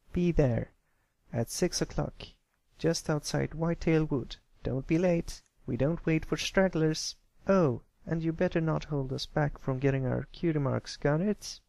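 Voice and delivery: lightly voiced bossy filly, a hint of threat; a pushy filly warning the new kid; Scootaloo's stern voice. Filly prods the colt's chest with a warning, lightly menacing.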